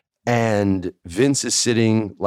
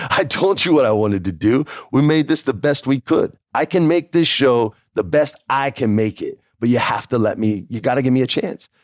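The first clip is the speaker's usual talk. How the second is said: pleading case; 5 semitones higher than usual. Retold or imitated. Arguing with the boss.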